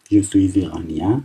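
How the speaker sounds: reading each French word out slowly. Shown as a demonstration. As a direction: read it slowly for the class. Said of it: "من به این صورت شروع کردم".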